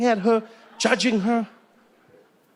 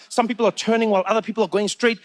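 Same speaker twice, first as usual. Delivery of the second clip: ordinary delivery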